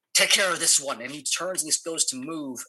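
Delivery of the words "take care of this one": enemy's order. Acted. Game master voices enemy calling ally.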